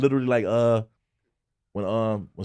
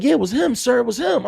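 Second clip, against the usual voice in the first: put-on higher, louder kid voice; imitating kid; 11 semitones higher, 5 dB louder than usual. Retelling the boy snitching to the cop, kid voice. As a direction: play the eager tattling boy. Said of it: "Young boy like".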